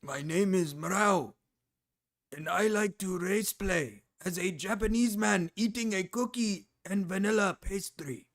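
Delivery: hammed-up Japanese accent, deliberate and halting; mock Japanese accent. Streamer poking fun at Mrao race playing, mock Japanese accent. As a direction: put on a caricature Japanese accent.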